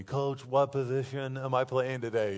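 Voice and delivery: lightly imitating a small child's question; little girl asking. Little girl asking her coach about positions, lightly imitated child voice. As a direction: say it like a little softball player. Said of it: "She asked me".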